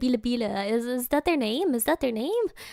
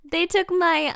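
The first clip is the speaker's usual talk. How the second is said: higher mock lament with laughter creeping in; mimicked robbery victim; 4 semitones higher than usual. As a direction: complain like the robbed woman, half-laughing. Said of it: "she was like".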